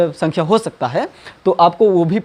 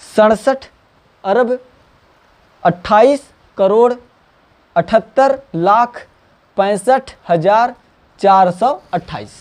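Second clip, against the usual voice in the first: slow spaced reading; 2 semitones higher, slower than usual. Shown as a demonstration. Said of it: "देखो कितना हो जाएगा हमारा ये".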